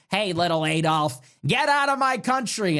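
mock indignant quote, climbing in pitch; Mark Levin. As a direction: lightly imitate an angry pundit. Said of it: "I'm just trying to do an accent".

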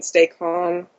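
flat, emotionless monotone; deadpan voice. Retold or imitated. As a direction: say it with no feeling at all. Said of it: "in a deadpan voice".

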